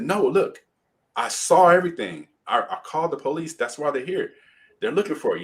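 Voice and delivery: high-pitched urgent explaining, retold; frantic. Witness explains to the victim, retold as frantic. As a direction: imitate a worked-up witness insisting. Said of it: "running around frantically".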